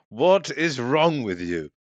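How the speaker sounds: slow, rising exasperated demand. Acted. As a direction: stretch out the questions in disbelief. Acted exasperated questioning of Fiddle.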